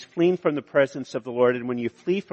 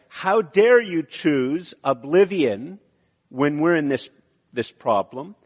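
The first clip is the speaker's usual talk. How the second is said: indignation; 3 semitones higher, slower than usual. Retold or imitated. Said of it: "it can either be indignation".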